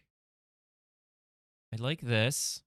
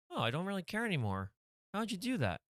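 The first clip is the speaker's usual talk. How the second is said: character voices; 8 semitones higher, faster than usual. Acted. Magician and cop lines.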